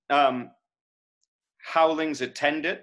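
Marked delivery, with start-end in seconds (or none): 1.6-2.8 "Howlings" stressed on its first syllable; trochee. Shown as a demonstration. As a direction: open the line on a strong HOWL in "Howlings". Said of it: "that's a trochee".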